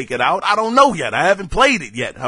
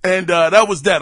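talking through hiccups; hiccuping between words. Real, not acted. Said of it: "I'm hiccuping".

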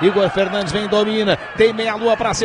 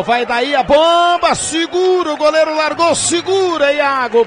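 excited commentary; 5 semitones higher than usual. Real, not acted. Goalmouth scramble.

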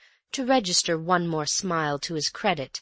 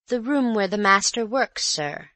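polite maid; 5 semitones higher, 3 dB louder than usual. Acted. Maid explains.

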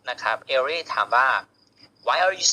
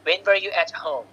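WH-question with the voice dropping at "home"; falling intonation; 3 semitones higher, much slower than usual. Shown as a demonstration. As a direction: let the question fall on "home". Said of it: "ลงท้ายเสียงต่ำ".

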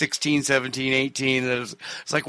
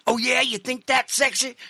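higher, teasing mock question; mocking retort; 10 semitones higher than usual. Telling the story of the pee-stained shirt, teasing. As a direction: needle her with a sarcastic tease.

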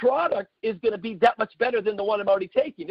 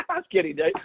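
laughing; 2 semitones lower, faster than usual. Real, not acted. Joking to Dave in church after the teasing, laughing. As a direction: laugh through the words, pitch jumps up.

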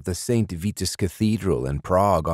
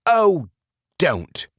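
high loud wail, mild; 12 semitones higher, 4 dB louder than usual. A narrator's reading. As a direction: wail it out through sobs. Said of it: "Burgum wailed".

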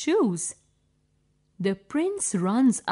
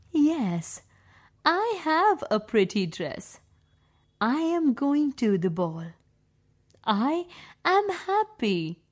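higher, delighted voice; happy Cinderella; 3 semitones higher than usual. Acted. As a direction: gush over the new dress.

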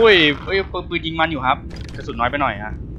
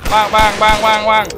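gun noises; 5 semitones higher than usual. Pretend. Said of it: "shooting noises".

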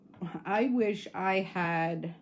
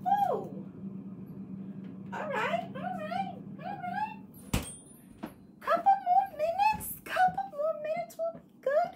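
cooing high. Real, not acted. To someone off-camera, high cooing voice.

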